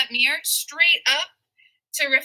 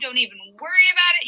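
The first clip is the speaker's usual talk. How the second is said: "Don't even worry about it" को तेज़, लापरवाह अंदाज़ में; laid-back surfer paraphrase, rattled off quickly; casual dude-speak; much faster than usual. Retold or imitated. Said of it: "he's basically saying".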